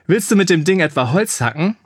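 mocking call across the fight. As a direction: tease the orc chief with a shout. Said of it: "rief er".

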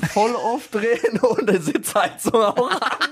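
rising, rushed giggly voice; laughing while talking. Real, not acted. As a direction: talk through the giggles. Joking car tips while laughing.

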